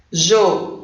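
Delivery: "Joelho" split into three separate syllables, jo-e-lho. Shown as a demonstration. Teacher counting syllables for pupils, "Joelho" broken into jo-e-lho. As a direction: pause after each syllable of "Joelho". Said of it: "são três sílabas".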